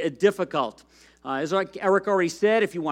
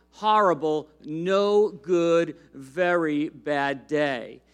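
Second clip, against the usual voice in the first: lively storybook reading to a congregation; animated read-aloud of a kids' story; reading a children's book. Acted. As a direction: read it like a picture book to kids. Pastor reads children's book aloud.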